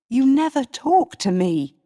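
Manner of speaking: heated complaint. Acted. Darnley accusing his wife, heated reproach. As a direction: throw the accusation back.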